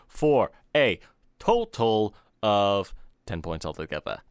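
a light Southern drawl, slow. Acted. Southern host tagging the rating system, light Southern drawl. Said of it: "the Southern voice when you say ten points altogether".

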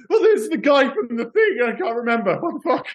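high, flustered blurt of half-remembered recognition; mock flustered shout. Starstruck fan blurting at a famous actor, high and flustered. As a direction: pitch it way up, panicking to place the face. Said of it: "I almost wanted to just shout out".

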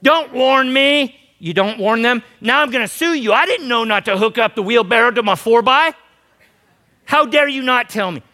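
high, loud indignant whine; mock outrage. Pastor mimicking people who sue, loud mock outrage. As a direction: play the outraged suer to the hilt.

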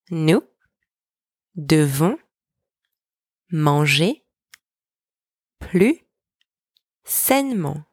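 single words rising, the last one falling; slow dictation with long pauses between words. Shown as a demonstration. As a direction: leave a gap after each for learners to repeat. Word-by-word breakdown for repetition.

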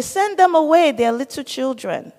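high, brushing-off disciple voice; dismissive disciples. Retold or imitated. Disciples shooing the children away from Jesus, high and dismissive.

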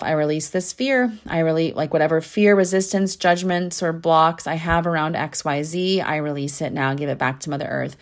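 steady, unhurried release mantra; calm spoken affirmation. Retold or imitated. Podcast host retelling her fear-release mantra, calm. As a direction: say it like a calming self-affirmation. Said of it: "said out loud to myself".

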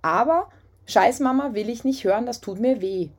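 calm boundary. Pretend. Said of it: "sagst du einfach".

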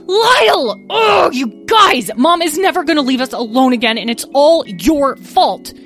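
high loud frantic yell and blame; panicked shouting. Acted. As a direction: shout for him, then blame everyone. Discovering brother is missing.

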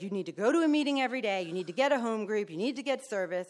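fast, firm sponsor orders; hardcore sponsor. Retold or imitated. Hardcore sponsor drills the newcomer, fast and firm. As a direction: drill the rules quickly. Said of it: "she's like / hardcore".

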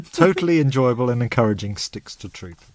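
lightly attempted Canadian accent; playful stab at a Canadian accent. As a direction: read it out with a hint of Canadian. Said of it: "do this in a Canadian accent".

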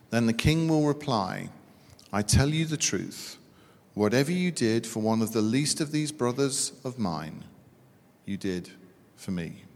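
solemn reading of Scripture, fading to a hush at the end. Acted. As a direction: read the passage to the congregation with weight. Reads scripture aloud.

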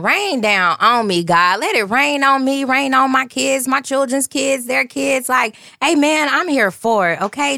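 high, fervent call for blessing; excited praise. Real, not acted. Host calling down blessings on her family, fervent. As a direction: lift it up in joyful praise.

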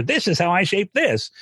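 high, swooping mock singer's line; exaggerated high-pitched shaping demo; mock singerly placement. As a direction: lift it up high as if carefully shaping each sound. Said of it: "It's not gonna come from".

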